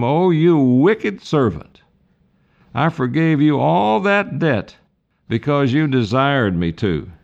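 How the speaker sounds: stern rebuking lord. Acted. Lord rebukes the wicked servant.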